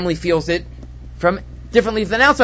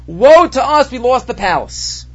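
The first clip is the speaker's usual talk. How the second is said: raised, mock wail that sinks slowly; hammed-up lament, higher then drawn out; 4 semitones higher, slower than usual. Mourners cry over the burned palace, wailing. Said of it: "Everybody's wailing".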